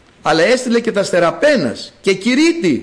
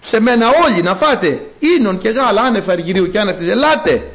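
mildly raised inviting proclamation; calling out. Acted. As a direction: call the congregation to come. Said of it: "ενώ φωνάζει η σοφία". (κάλεσμα από τον άμβωνα)

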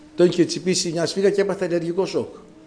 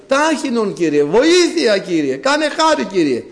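imitated urgent plea, raised in pitch; David crying out; 4 semitones higher than usual. David begging the Lord for help, imitated urgent cry. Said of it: "εδώ φωνάζει ο, ο Δαβίδ".

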